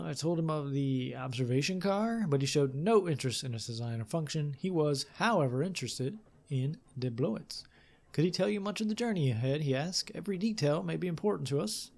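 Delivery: measured, lively storytelling read; story narration. A narrator's reading. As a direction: read it like an adventure tale. Reads game text aloud.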